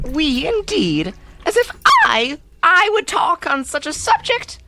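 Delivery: rising offended mouse; lofty, huffy protest; haughty indignation. Acted. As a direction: bristle with wounded pride.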